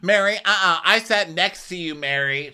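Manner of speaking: mock scream. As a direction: yell it at Mary. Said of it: "Jenny screams".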